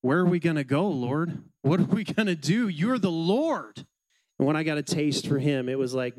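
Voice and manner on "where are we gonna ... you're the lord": rising, pleading voice that slows on You're the Lord; earnest disciples' plea. Acted. The disciples answering the Lord, earnest rising plea. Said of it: "And what do the disciples say?".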